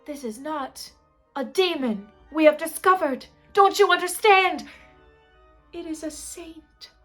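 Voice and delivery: put-on impassioned French-accented proclamation, building loud and high. French gravedigger announcing a saint, accented and exultant. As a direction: rise to French-accented rapture. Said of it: "actually, he was French".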